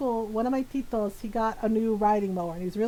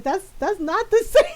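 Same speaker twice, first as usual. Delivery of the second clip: higher, louder comic protest breaking into a laugh; exasperated; 7 semitones higher, 7 dB louder than usual. Retold or imitated. Grown child contradicting mom, mock exasperated. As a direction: object in mock frustration.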